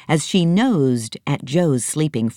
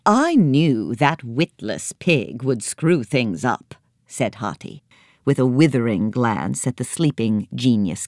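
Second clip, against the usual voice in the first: elephant voice. Acted. Elephant scorning the pig, lightly voiced. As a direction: sneer at the witless pig.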